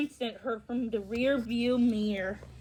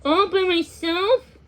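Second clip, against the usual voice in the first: sarcastic; 6 semitones higher, 5 dB louder, much slower than usual. A narrator's reading. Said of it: "murmured through gritted teeth".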